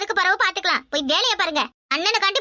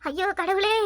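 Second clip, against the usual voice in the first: despairing lament. Acted. Mother bewails her fate and her daughter-in-law's, despairing lament. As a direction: wail it helplessly.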